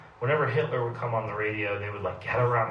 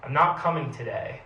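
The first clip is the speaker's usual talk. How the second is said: shouted back; 3 semitones higher, 3 dB louder than usual. Retold or imitated. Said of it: "he shouted back at her".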